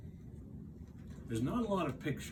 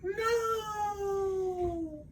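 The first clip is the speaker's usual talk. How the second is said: high, tiny peep. Acted. Frog peeping a tiny answer to Toad, high. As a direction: squeak it out. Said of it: "peeped Frog".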